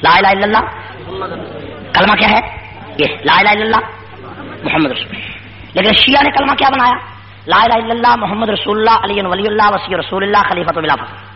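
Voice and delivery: forceful, rhythmic sermon delivery; emphatic preaching. Real, not acted. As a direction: drive each repeated phrase home to the congregation. Preacher drills and declaims creed. (پُرزور خطیبانہ انداز میں تقریر)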